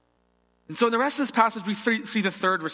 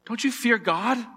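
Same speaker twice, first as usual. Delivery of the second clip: higher-pitched reproach, read aloud; rebuke; 4 semitones higher than usual. Acted. Second criminal rebukes the mocking one, reproachful. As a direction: read it as a mild scolding question. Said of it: "the other criminal rebuked him".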